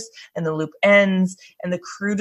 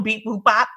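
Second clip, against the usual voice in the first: mock computer beep-boop sounds; little spoken android beeps; robot beeps; 3 semitones higher than usual. Finishing a quote as android Data, mock robot beeps.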